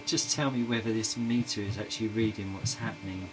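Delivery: plummy upper-class English voice; posh voice. Pretend. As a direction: put on a posh accent. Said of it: "he says in a very posh voice".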